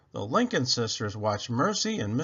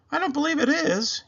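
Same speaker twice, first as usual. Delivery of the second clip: pondering officer; 14 semitones higher, 5 dB louder than usual. A narrator's reading. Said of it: "he answered himself".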